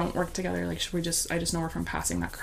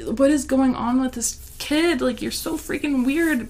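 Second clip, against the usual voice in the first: annoyed glare; 6 semitones higher, 4 dB louder, slower than usual. Retold or imitated. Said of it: "glaring at him".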